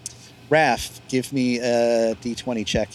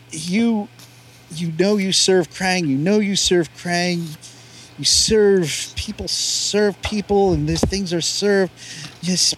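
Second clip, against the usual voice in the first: hypnotic crane; 5 semitones higher than usual. Acted. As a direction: lull her with repeated words. Villain hypnotizing with words.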